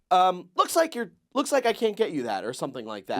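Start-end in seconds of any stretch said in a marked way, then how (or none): 0.5-2.4 robot voice. Retold or imitated. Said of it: "then it would go".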